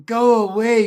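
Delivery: put-on high, loud kid yelling; small boy yelling at big boys to go away. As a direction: shout them off the monkey bars. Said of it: "I'm yelling at them".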